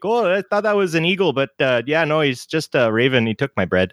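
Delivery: a hint of a Manitoban Canadian; Manitoban Canadian accent. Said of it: "being like".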